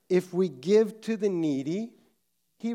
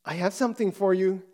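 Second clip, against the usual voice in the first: quick, louder mock child excitement; retold excited child; 5 dB louder, faster than usual. Four-year-old daughter surprising daddy at the door, excited. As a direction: bubble it out fast like an eager little girl. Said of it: "she said excitedly".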